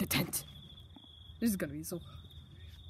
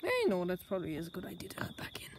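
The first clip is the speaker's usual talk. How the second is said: thinking aloud; 4 semitones lower, 5 dB quieter than usual. Acted.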